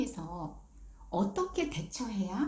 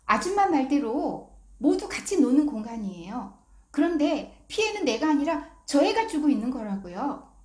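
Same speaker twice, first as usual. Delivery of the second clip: put-on crisp child; 4 semitones higher, 5 dB louder than usual. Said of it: "또박또박 이렇게 말하더래요".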